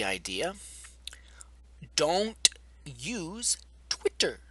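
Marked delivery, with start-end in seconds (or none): 1.9-4.4 hushed, slow whisper; mock whisper. To viewers, a slow mock conspiratorial whisper. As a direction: breathe it like a forbidden secret.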